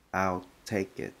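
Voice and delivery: slow model "I'll take it."; slow demo. Shown as a demonstration. Teacher modelling a short reply slowly. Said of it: "Thì mình sẽ nói là".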